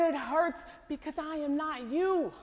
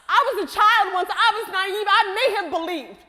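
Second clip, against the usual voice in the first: louder, hard-hit bitter lines; bitter outburst; 3 semitones higher, 6 dB louder than usual. Acted. Scarred woman hurling her pain at hope, loud and bitter. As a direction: throw her life's wounds back at her.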